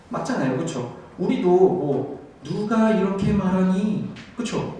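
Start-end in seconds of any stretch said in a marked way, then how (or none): 2.4-4.1 "누가 이렇게 말하니" slow and higher, each syllable spelled out; over-enunciated. Shown as a demonstration. Teacher mocking unnatural Korean speech, over-enunciated. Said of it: "이렇게 말 안 하잖아요".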